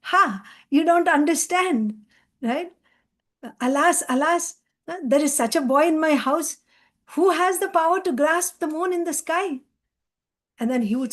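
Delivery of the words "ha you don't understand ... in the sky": higher-pitched, lightly acted mother's lament; mock a mother's amazed exclamation, pitched up; laughing mother's exclamation. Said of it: "laughing and laughing".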